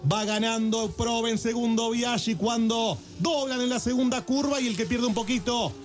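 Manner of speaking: live race call, building at the start; motorsport commentator. Acted.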